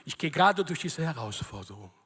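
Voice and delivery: devoted believer praying. Acted. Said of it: "reden so mit ihrem Gott". (vorgemachtes, eindringliches Gebet in tiefer Stimme)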